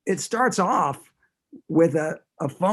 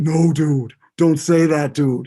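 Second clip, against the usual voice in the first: put-on Boston accent; 8 dB louder than usual. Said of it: "terrible Boston accent".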